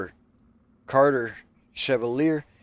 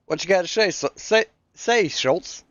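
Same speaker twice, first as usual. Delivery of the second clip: teasing call-out; 8 semitones higher, 3 dB louder than usual. Real, not acted. Teasing a driver on air.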